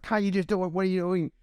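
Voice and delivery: high, impatient mock bark of a feverish boss; mock delirious barking. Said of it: "barking out orders in this, like, weird delirious haze".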